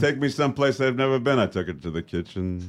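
lightly voiced old-school one-liner comic; Henny Youngman style. Actor tells a wife joke to hosts, lightly Henny Youngman-style. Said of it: "why are we back to Henny Youngman?".

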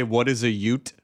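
genteel Southern judge in a low voice; refined Southern judge. Pretend. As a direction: puzzle it out like a courtly old judge. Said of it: "refined Southern judge come out and say".

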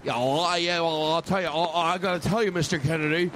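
lightly put-on Boston politician; halting start of a mock presidential address; J F Kennedy. Comic tries out a president's voice on stage, lightly accented. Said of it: "I'll sound like J F Kennedy right now".

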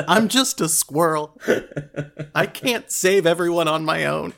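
a tiny creature pleading through giggles, slow at first; squirrel voice. Acted. Game master voices the squirrel pleading, laughing. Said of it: "the squirrel says".

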